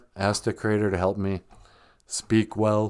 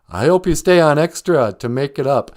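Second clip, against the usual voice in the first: ordinary delivery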